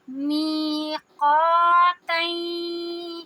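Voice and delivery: میقاتین slow with the یا doubled; Quran recitation. Shown as a demonstration. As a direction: chant میقاتین, merging into the یا. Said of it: "ادغام کریں گے". (میقاتین میں ادغام کے ساتھ تلاوت)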